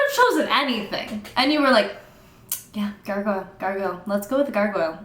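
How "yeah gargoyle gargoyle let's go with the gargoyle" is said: quiet, casual imitation of deciding; mock offhand decision. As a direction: pretend to settle on it idly. Mocks author casually picking gargoyle.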